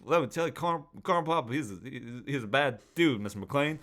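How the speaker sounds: high, loud, rambling old-man Biden voice playing a villain; Joe Biden impression. Mocking Jon Voight as Biden, high loud hammed-up old-man voice. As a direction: ham up a doddering Biden making Die Hard threats. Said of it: "Jon Voight's basically Joe Biden".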